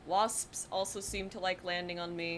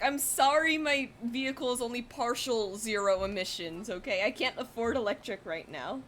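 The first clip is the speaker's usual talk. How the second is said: loud, exasperated mock apology; hammed-up indignant shouting; retold yelling; 5 semitones higher, 6 dB louder than usual. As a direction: yell your excuse at an angry bee. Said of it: "yelling from the driver's seat".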